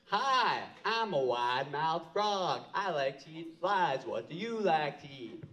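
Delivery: a cheery frog bouncing up to say hi; wide-mouthed frog. Acted. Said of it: "says to the fox".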